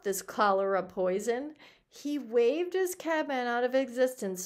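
expressive audiobook reading; story narration. A narrator's reading. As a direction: read it out as a lively tale. Reads the story aloud.

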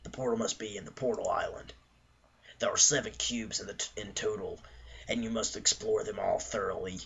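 mock-serious adventure map narration; dramatic reading. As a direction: read it like an epic quest narrator. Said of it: "Stop s-, reading like that".

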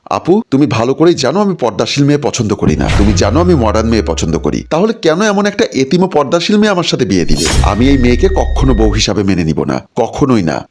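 a mild mock yell, pitch lifting on the question; an angry husband half-shouting at his sister. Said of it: "চিৎকার করে বলল".

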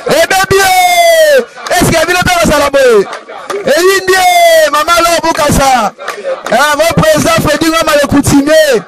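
high-pitched hype-man name calls; hype shout-outs. Real, not acted. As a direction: sing out the names, stretching them high. Calling out names to the crowd. (kobelela bankombo na koganga)

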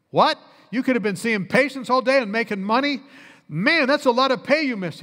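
imitating an amazed listener, rising pitch; retold incredulous surprise; astonished reaction. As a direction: blurt it in mock disbelief. Retold man astonished at volunteering doctor.

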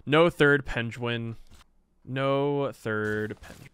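slow, drawn-out mock lament; a touch of pretend sorrow; lightly hammed-up disappointment; mock sad.

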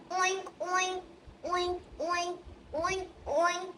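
pig oink. Shown as a demonstration. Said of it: "Ikatlo ay baboy".

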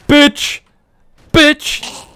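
high, loud yelled insult; angry shout. Real, not acted. Player yelling at bystanders who laughed, high shout. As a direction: bark it at them as you hit them. Runs over mocking pedestrians.

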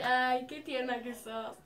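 slow, imitated cooing reply; drawn-out tender reaction; touched idol. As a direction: imitate a star finding the fan sweet. Idol touched by crying fan.

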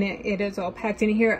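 ordinary delivery

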